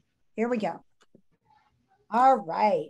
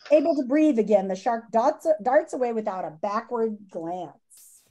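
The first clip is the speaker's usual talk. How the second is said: lively storybook read-aloud for students; reading aloud to class; 3 dB louder than usual. Acted. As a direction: read the chapter to the kids with expression. Teacher reads book to class.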